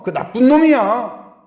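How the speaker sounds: loud high spiteful denouncing; scornful accusation. Acted. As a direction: spit out the accusation. Acted betraying friend badmouthing. (높고 크게 내뱉는 비난)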